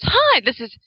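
light imitation of a cheerful voicemail hello; a slightly bright mimic of her recorded hi; girlfriend's greeting. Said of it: "she goes".

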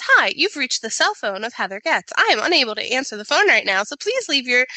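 a light imitation of a stiff recorded greeting; formal voicemail voice. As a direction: read it off like a prim answering machine. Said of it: "mine has a very formal voice".

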